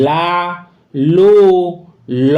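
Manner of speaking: লা, লু, ল, each vowel distinct, with pauses between; pronunciation demo. Shown as a demonstration. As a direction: sound out লা, লু, ল as three separate syllables. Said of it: "উচ্চারণ".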